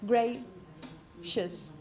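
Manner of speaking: "Gracious" ending said as a short "us"; teacher models "Gracious" ending like "us"; model pronunciation. Shown as a demonstration. Teacher models the word for the class, clear demo. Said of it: "Imagine you have this".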